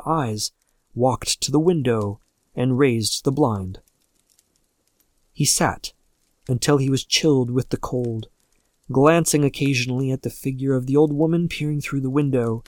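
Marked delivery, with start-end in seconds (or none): none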